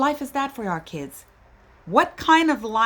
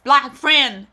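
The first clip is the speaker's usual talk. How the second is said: mock bystander; 3 semitones higher, 4 dB louder than usual. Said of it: "sit around and say".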